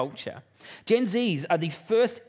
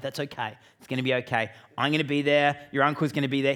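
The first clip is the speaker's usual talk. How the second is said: put-on gently calm a scared kid; father soothing terrified son before jump; reassuring; 3 semitones lower than usual.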